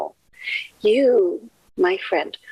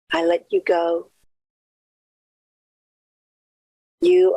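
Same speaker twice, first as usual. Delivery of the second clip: short phrases with long silences between; guided meditation. Acted. Minister leading listeners inward to release someone, meditative. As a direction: guide them gently, leaving room after each affirmation. Leads listeners through affirmation.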